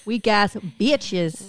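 slow, scornful weak ass bitches; contemptuous drawl. Real, not acted. Friend spitting out contempt for weak parties, slow and scornful. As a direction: drag out every word with disdain.

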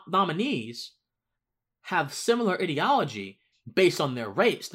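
normal talking voice

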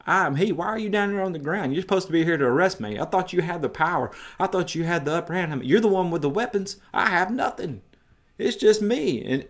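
lightly mock the soldiers lying on the ground. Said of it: "or mocking them in a way".

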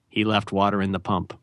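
a hint of a Hemingway voice, low and soft; lightly voiced Hemingway, dropped low; Hemingway impression. Doing Hemingway for the cohost, low and soft. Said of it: "That's my Hemingway impersonation".

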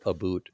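"a boot" for about, oo vowel; mock-Canadian about. Shown as a demonstration. Telling hosts about a joke spelling, "a boot" Canadian-style. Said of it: "their about page is spelled".

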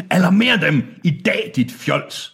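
high, impatient scolding command; angry order. A narrator's reading. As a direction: scold an underling, starting high. Han har anger issues.

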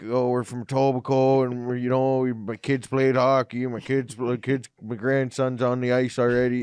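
lightly exaggerated Canadian accent; chatty small-town Canadian hockey parent; pure Canadian. Guest voicing the premier as pure Canadian, lightly put-on Canadian accent. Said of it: "pure Canadian".

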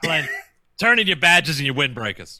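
shouted captain's order; angry police captain. Pretend. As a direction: yell it like a fed-up police chief. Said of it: "a cop that's going a little bit too far".

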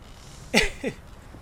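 high, condescending little laugh. A narrator's reading. Aella scoffing at the hunter's boast, condescending laugh. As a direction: laugh down at a challenger. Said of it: "in a condescending laugh".

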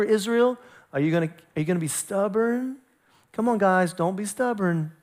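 soft, gently coaxing dad; dad-to-little-kids voice. Acted. God leaning over Israel like a father, gentle coaxing. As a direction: coax them like small children. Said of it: "That was my dad to the little kid's voice".

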